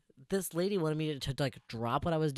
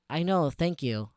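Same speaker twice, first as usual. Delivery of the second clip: drawn-out, sarcastic acknowledgement; sarcastic thanks; 3 dB louder, slower than usual. Retold or imitated. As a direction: thank them with slow sarcasm. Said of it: "I was being very distinctly sarcastic".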